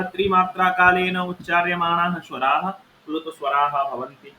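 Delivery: chanted Sanskrit rule, measured and formal; sutra recitation. Shown as a demonstration. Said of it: "Sanskrit sutra recitation". (सूत्र पाठ का स्वर)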